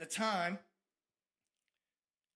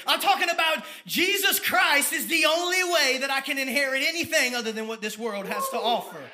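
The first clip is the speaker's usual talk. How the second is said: said again, higher and louder, hammering it home; fired-up preaching; 4 semitones higher, 5 dB louder than usual. Real, not acted. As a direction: shout it like a preacher on fire. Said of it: "I get fired up".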